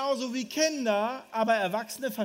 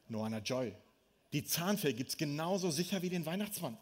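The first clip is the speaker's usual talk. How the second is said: hushed fib; 6 semitones lower, 7 dB quieter than usual. Retold or imitated. Fibbing to daughter about fairy.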